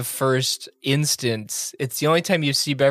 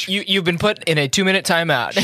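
raised, scolding teacher voice; stern timeout scolding; 4 semitones higher than usual. Retold or imitated. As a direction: put the runner in time out. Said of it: "He's like".

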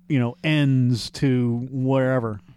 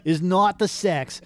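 put-on old Jewish woman; 3 semitones higher than usual. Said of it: "my impression of Robert is the same as an old Jewish woman".

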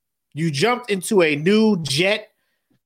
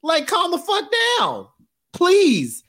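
mock freakout; 9 semitones higher than usual. Talking to the movie, a high hammed-up freakout. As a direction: panic at the screen in a shrill pitch.

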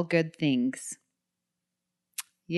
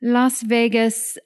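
high-culture voice; 4 semitones higher than usual. Acted. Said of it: "in my high culture voice?".

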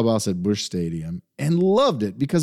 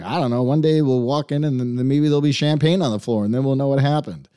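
Southern twang; 2 semitones higher than usual. Retold or imitated. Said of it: "I'm doing a little Southern twang".

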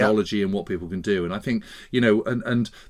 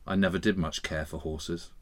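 lugubrious grandmother; 6 semitones lower, 9 dB quieter than usual. Retold or imitated. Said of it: "very lugubrious turn of phrase".

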